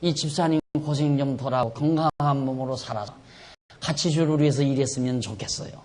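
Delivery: soft, modest prayer for a sick deacon; demonstrated prayer. Retold or imitated. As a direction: pray quietly, as a simple wish. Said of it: "그렇게 기도를 해요". (나직하게 바라는 기도)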